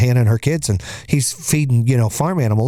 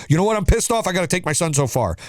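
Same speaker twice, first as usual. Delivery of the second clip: higher pitched, whiny complaining about the drive; mock resentful grumble; 4 semitones higher than usual. Parent griping about driving his son far, whiny. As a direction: play the parent who resents the school run.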